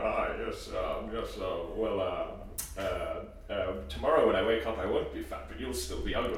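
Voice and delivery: Churchill quip. Pretend. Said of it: "what's the Winston Churchill".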